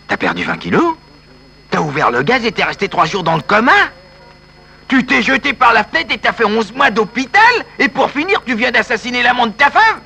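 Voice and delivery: you don't believe a word of his drama; mock disbelief at his suffering; doubting sceptic. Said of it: "si vous êtes sceptique".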